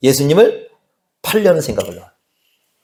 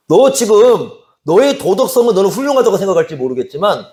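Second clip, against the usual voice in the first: higher-pitched, emphatic reproach; forceful retold rebuke; 5 semitones higher than usual. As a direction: press each point home as Jesus admonishing Peter. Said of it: "강력히 얘기를 하는 겁니다". (강하게 꾸짖는 말투를 재연)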